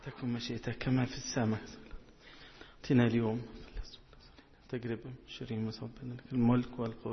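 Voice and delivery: murmured opening prayer; recited prayer. Real, not acted. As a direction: recite a familiar prayer, trailing softly.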